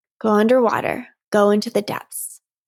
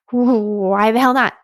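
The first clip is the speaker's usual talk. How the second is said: slow, voice catching with tears; real choked-up defiance. Real, not acted. Coach tearing up while defending feelings, slow and choked. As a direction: push through the crying, slowly.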